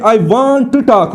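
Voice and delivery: slowly, every sound of I want to talk; teacher reads I want to talk slowly; slow full I want to talk. Shown as a demonstration. I want to talk धीरे. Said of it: "टॉक रह रहा है".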